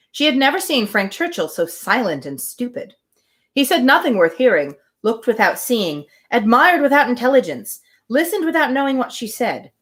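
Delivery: even, measured reading of a classic novel; story narration. Acted. Host reading Emma aloud to her livestream, calm narration. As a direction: read it like an audiobook, steady and clear.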